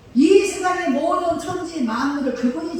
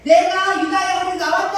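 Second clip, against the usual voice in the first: mocking boast; 4 semitones higher, 4 dB louder, slower than usual. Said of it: "하나님이 비꼬고 계시는 거예요".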